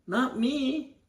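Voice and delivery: a cornered man blurting his denial; panicked blurt. Retold or imitated. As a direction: blurt it out high in sheer panic. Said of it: "Peter blurts out".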